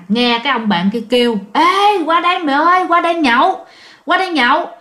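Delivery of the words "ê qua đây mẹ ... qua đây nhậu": imitating a friend hollering across, higher pitched; eager retold call to come over; urgent calling out. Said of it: "Ông bạn kêu giật ngược".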